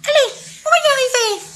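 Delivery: high, fast, laughing cheer; excited cheer. Acted. Second elephant cheering himself on, excited. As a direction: rush it out, thrilled and giggly.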